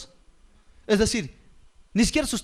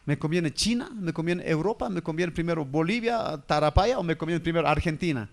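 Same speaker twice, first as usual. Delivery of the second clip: lower, softer voice of a puzzled dead father; a lightly voiced ghost weighing where to visit; dead man wondering; 5 semitones lower, 3 dB quieter than usual. Dead father picks which child to visit first, lower and puzzled. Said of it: "el muerto dice".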